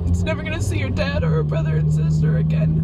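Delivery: high, breaking voice, crying hard through the words; ugly cry. Real, not acted. Leaving home at dawn, crying to the camera, sobbing. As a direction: sob it out, heartbroken and barely holding together. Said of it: "my ugly cry".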